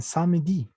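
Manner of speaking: "samedi" in three syllables, sa-me-di; sounded E. Shown as a demonstration. Teacher showing how others say it, E sounded. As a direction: let the E slip into "samedi". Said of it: "se les patina la E".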